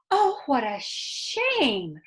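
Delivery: slow, sympathetic wife's voice; a gentle, worried farm wife; concerned farmer's wife. Acted. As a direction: sigh it out with pity. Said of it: "Missus Butler was very concerned".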